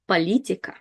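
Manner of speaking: Политика said "pa-LEE-ti-ka"; unstressed O as A. Shown as a demonstration. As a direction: turn the first O of Политика into an A. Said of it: "we read it as A because it's not stressed".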